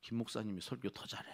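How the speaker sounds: lightly voiced tempter, drawing out the endings; a hint of a needling devil; devil's persuasion. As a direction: coax with mock reasonableness. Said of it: "이러면서".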